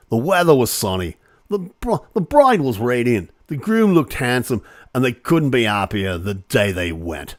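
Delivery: mock Australian accent. Shown as a demonstration. Host rereading the wedding statement, in a mock Australian accent. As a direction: read it like a cheery Australian local. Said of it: "I've gotta do that with the right accent".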